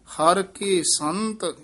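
slow ਹਰ ਕੇ ਸੰਤ, then a brief halt; short pause after. Shown as a demonstration. Teacher marks the small pause after ਹਰ ਕੇ ਸੰਤ. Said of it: "ਇੱਥੇ ਠਮਕ".

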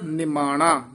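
ਨਿਮਾਣਾ with a short i after the first n; short i vowel. Shown as a demonstration. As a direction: say ਨਿਮਾਣਾ as "ni-maana". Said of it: "ਨੰਨੇ ਦੀ ਸਿਹਾਰੀ ਲਾ ਕੇ ਉਚਾਰਨ ਕਰਨਾ ਹੈ".

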